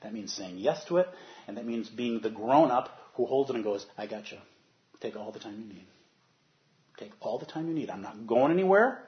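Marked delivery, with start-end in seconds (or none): 4.0-9.0 put-on gentle parent calming a baby; tender reassurance. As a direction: soothe a frightened child in your arms. Grown-up holding a crying baby.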